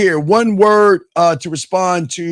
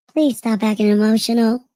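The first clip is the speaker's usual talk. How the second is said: faked female voice, pitched higher; 4 semitones higher than usual. Answering a request to say a line: put-on woman voice. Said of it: "in your woman voice one time".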